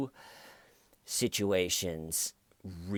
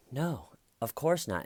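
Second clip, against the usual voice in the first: high, hammed-up denial; melodramatic; 6 semitones higher than usual. Girl denying knife question, high melodramatic imitation. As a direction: imitate her overdone innocence. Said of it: "director that always does melodrama".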